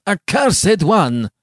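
loud, slow, high cry of anger; venomous scorn. A narrator's reading. Giovanni turning on Beatrice in rage, venomously scornful. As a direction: spit it out with venomous contempt. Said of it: "cried he, with venomous scorn and anger".

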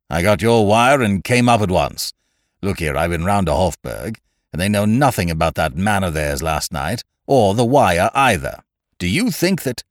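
lightly voiced agitated nobleman; Lord Yardley, urgent. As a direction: press for answers as a worried lord.

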